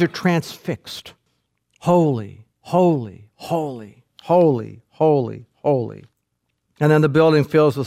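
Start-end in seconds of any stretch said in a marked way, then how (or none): 1.8-6.0 a hint of angels calling. Angels calling back and forth.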